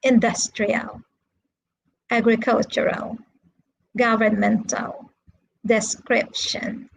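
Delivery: careful word-by-word pronunciation model; measured teacher demo with pauses between words; repeat-after-me model. Shown as a demonstration. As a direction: say each word separately for learners to repeat. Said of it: "listen and repeat".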